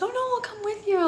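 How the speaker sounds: high, soft and sweet; gently insist, voice lifted high and light; imitating a sweet boyfriend offering company; retold sweet offer. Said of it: "just being sweet".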